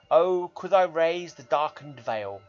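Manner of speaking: slow, solemn poetry reading; poem recital. Acted. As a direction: read it like a grave old verse. Reads a poem aloud.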